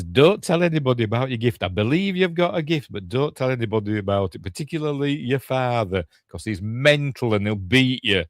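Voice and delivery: lightly acted mum, pitch lifting on the warnings; a hint of a cautioning parent, lively retelling; mum's warning. Mother warning her child about the gift, mildly urgent warning. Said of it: "so she tells her".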